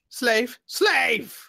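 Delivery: high, loud call for the slave; shouted summons. Acted. Merchant Fame yelling for his goblin slave, high and loud. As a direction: yell for the servant, high and sharp.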